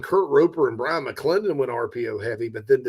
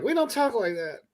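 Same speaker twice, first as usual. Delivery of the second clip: mock northerner; 9 semitones higher, 4 dB quieter than usual. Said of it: "they're like".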